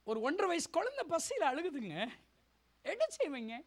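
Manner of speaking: high, pleading, tearful voice; tearful appeal. Real, not acted. Pleads over a hungry child. (அழுகை கலந்த கெஞ்சல்)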